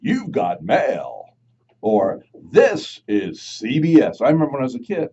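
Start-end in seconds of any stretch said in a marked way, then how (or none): 0.0-1.2 slow, announcer read; mild voiceover-guy delivery; lightly voiced announcer line. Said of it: "the guy that goes". 2.5-4.2 slow, louder announcer read; lightly voiced CBS announcer; network announcer. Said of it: "the guy that goes".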